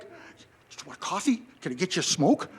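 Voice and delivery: soft, fussy offer from a doting host; overdramatic host. Pretend. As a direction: play a host hovering with an apron on. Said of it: "they're overdramatic in trying to be a good host".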